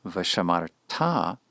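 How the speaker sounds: vashamarta with the stress on the final ta; accent on the last syllable. Shown as a demonstration. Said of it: "the accent has moved to the last syllable".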